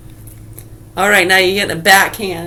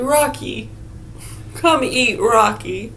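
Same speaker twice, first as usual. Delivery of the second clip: slow, sing-song call to a pet, higher; 4 semitones higher, slower than usual. Pretend. Calling the pet squirrel Rocky over, slow and sing-song. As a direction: coax the squirrel over like a pet you're about to eat.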